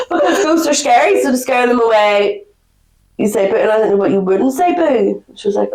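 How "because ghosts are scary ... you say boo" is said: mock explaining. Acts out her naive explanation.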